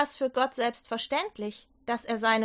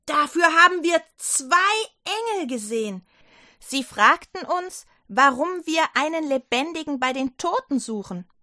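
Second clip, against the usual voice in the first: higher, louder eager report; excited telling; 4 semitones higher, 4 dB louder than usual. Acted. Johanna tells the doubting disciples, eager and louder. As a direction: pour out the news.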